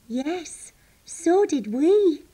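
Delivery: high, loud, stretched agreement; lightly voiced sheep, keenly agreeing; Barbara the sheep. A narrator's reading. Sheep agrees she enjoyed the park, high and drawn out. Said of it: "said Barbara".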